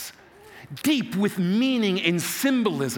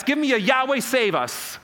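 cheerleader-style call, pitched up at the start; rallying call; 4 semitones higher than usual. Real, not acted. Pastor leading the crowd in a chant, rallying call.

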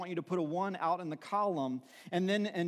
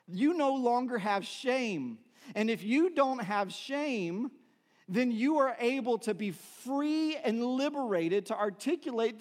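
higher-pitched preaching with drawn-out key words; impassioned preaching; 5 semitones higher than usual. Real, not acted. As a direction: proclaim it with conviction to the congregation. Preaches with rising conviction.

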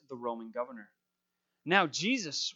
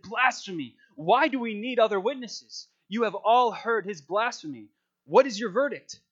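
raised, higher-pitched voice of scandalized accusation; outraged high priest; 5 semitones higher, 6 dB louder than usual. A narrator's reading. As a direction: read it as a horrified accuser, loud and high. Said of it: "to show his horror and said".

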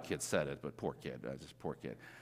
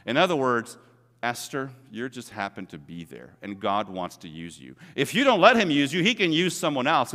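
ordinary talk

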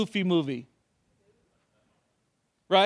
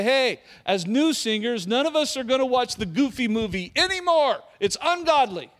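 mock strict rule-maker; 3 semitones higher than usual. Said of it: "if I come up with rules for all of you and say".

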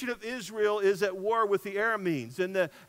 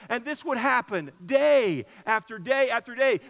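louder, driving the repetition; preaching with rising force; emphatic preaching; 6 dB louder than usual. Real, not acted. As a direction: hammer home each day.

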